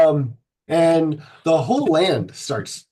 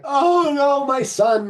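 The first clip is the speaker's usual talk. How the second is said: higher, hammed-up wail of a grieving father; mock grief; 11 semitones higher, slower than usual. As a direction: ham up a father's cry for his son. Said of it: "and he's like".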